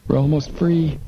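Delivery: lifted, hopeful line, almost free. A narrator's reading. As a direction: let hope rise in the voice.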